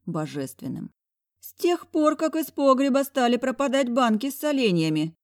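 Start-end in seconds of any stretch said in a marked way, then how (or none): 1.4-5.1 put-on high, gasping exclamation from the old lady. A narrator's reading. Old lady gasps at the question, alarmed. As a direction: gasp it out in alarm. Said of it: "ахнула Альбертовна".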